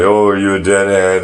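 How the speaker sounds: put-on eager fan question; imitating eager askers. Acting out people's excited question.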